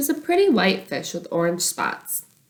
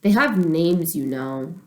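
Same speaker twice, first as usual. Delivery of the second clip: grumbling; slower than usual. Acted. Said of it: "Bobby grumbled".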